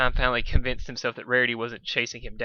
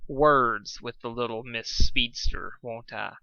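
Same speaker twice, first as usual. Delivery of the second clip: measured chilly threat; Rarity coldly plotting revenge; 3 semitones higher than usual. Acted.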